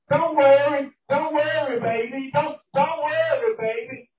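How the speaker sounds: retold soothing mother. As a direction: imitate a mother soothing her child. Mother soothing worried child in story.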